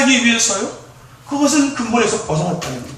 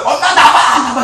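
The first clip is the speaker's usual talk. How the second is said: imitated child's yell; 2 semitones higher, 4 dB louder, slower than usual. Child competing with twin for mother's attention, mock yelling. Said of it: "막 고래고래 질러요".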